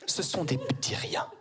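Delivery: a hint of a patient mother, whispered at the end; mildly voiced mother soothing her son; mother's answer. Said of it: "ma mère me répondre".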